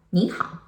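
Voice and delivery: 你好 with 你 rising as a second tone; 你好 spoken with the changed tone; tone sandhi on 你好. Shown as a demonstration. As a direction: say 你好 as ní hǎo, first syllable rising. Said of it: "it become 你好".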